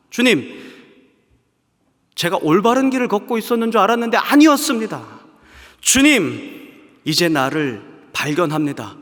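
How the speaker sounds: high, loud pleading cry to the Lord; desperate resolve. Acted. A sinner vowing to God to stop, loud pleading cry. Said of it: "라고 다짐하겠죠".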